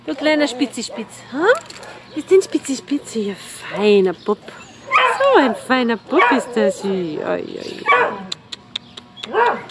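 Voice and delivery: squeaky praising a dog. Real, not acted. Baby talk praising shelter dog.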